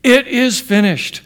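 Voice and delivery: high, slow, drawn-out proclamation; shout of victory. Acted. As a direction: cry it out slowly in triumph, pitched high. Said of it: "in a shout of victory".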